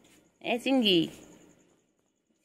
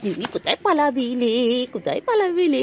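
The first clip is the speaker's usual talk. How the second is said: teasing call; 5 semitones higher, 3 dB louder than usual. Real, not acted.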